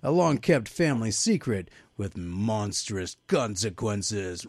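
slow, mildly hammed-up horror trailer reading; dramatic synopsis read. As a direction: stretch out the ominous words. Resumes theatrical synopsis reading.

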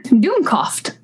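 Dummkopf said DOOM-kawf, German style; German word demo. Shown as a demonstration. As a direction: teach Dummkopf with short oo and open o. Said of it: "I'll teach you a fun word".

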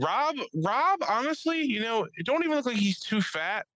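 high, loud, slowed emphasis; excited. Real, not acted. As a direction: press the point with glee. Laughing excited aside.

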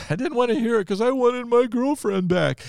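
laughing high as he admits it; real laugh running through the words. Real, not acted. Laughs at his own stubbornness.

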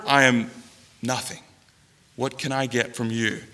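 low, soft confession to God; humble prayer. Acted. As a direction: sink into hushed humility.

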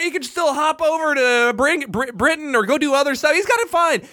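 high, heated comic rant; worked-up arguing. Real, not acted. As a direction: argue it like it matters. Heated mock argument.

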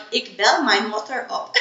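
slow laughing Dutch phrase. Retold or imitated. Host recalls Dutch from old boyfriend, laughing Dutch. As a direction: say it slowly through a laugh in Dutch.

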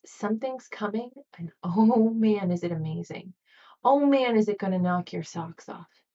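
eager, delighted anticipation; excited faith. Retold or imitated. Faith answering fear, gleefully excited. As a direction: lift it with a laugh of joy. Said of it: "Faith is".

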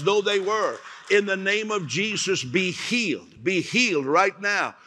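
commanding healing words spoken over the crowd; healing proclamation. Acted. Preacher to congregation, proclaiming healing with authority.

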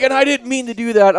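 a touch of whimpering, mocked; mock tearful apology. Crying intruder apologising to the homeowner, mildly mock tearful. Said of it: "he starts crying".

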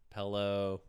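Pillow said as pellow; first vowel of Pillow like bell; regional pronunciation. Shown as a demonstration. Host repeating the regional example, Pillow said as pellow.

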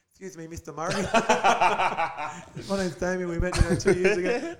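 Mike Tyson voice. Retold or imitated. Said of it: "like Mike Tyson".

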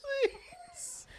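mock whisper. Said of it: "Speak up".

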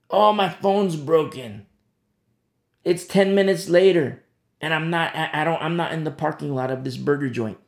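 hammed-up excuse-making; mock complaint. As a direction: act out blaming the phone, loudly at first. Acting out blaming the phone.

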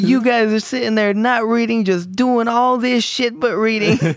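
high-pitched teacher rant; retold blow-up. Teacher laying into the boys for not reading, mock scolding. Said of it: "the teacher just blows up".

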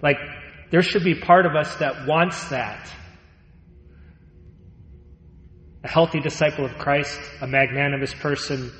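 earnest sermon delivery; preaching. Acted. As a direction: preach it with weight. Preaching on Saint Paul.

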